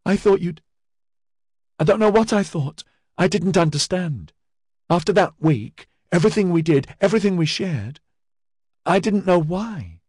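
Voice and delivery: high, tearful voice; words spilling through tears; weeping. Acted. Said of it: "she wept".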